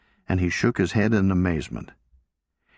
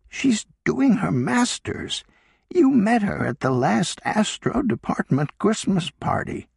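Sarah, insistent; 13 semitones higher than usual. A narrator's reading. Sarah explains to Don.

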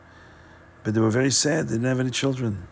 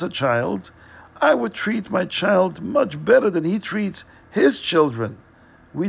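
tearful wife; 4 semitones higher than usual. Acted. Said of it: "burst out crying hysterically".

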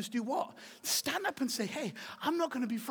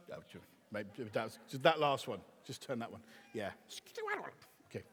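quiet aside; 12 semitones lower, 7 dB quieter, faster than usual. Real, not acted. Aside to sound tech.

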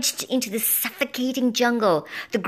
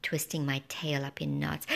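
ordinary delivery

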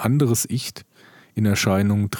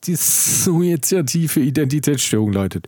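stumbling with a dry mouth; words catching on a dry tongue; 6 semitones higher, 4 dB louder than usual. Real, not acted. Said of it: "mein Mund ist ganz trocken".

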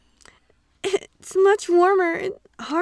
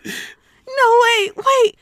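panicked protest; 2 semitones higher, 4 dB louder than usual. Acted. Heroine protests in a dub.

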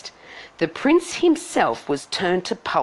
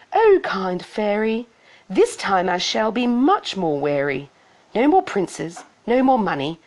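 Cindy answering fairy; 4 semitones higher than usual. Acted.

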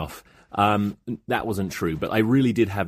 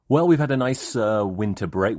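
cheery. Shown as a demonstration. Host cheerfully announcing the nice winter break. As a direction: sell the nice break brightly. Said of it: "and it wasn't that nice".

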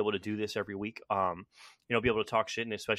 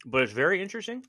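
talking around a cough drop; words round a lozenge; mouth full. Real, not acted. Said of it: "I have a cough drop in my mouth".

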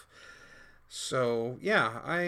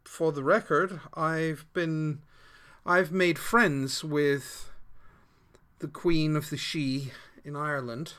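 slower, louder in-character voice; character speech; 3 semitones higher, 7 dB louder, slower than usual. Acted. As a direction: speak as the proud warrior. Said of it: "she says".

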